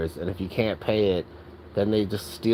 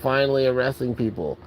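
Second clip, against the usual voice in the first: mock cheering commenters; 2 semitones higher than usual. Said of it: "every single person in the comments is like".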